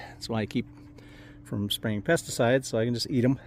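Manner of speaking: talking with a mouth full of raspberries. Real, not acted. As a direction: speak around a mouthful of berries. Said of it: "I'll talk with my mouth full".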